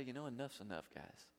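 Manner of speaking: low, soft, understated voice of God giving up; hushed, mild acted weariness; quiet imagined resignation. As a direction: say it quietly, dropping away at the end.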